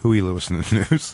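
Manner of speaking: the name said as HOO-ee, without the y glide; deliberately wrong name, rhyming with gooey, starting HOO; mispronounced name. Shown as a demonstration. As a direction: say the name like "hooey". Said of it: "I'm gonna call him that".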